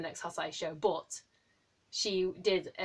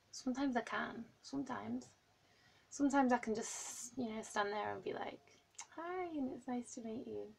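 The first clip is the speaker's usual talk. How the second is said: mock composure; 3 semitones higher, 9 dB quieter than usual. Imagining calmly meeting skater.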